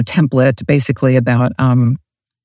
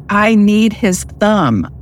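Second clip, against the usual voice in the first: screamed; 5 semitones higher, slower than usual. A narrator's reading. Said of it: "screamed into his face".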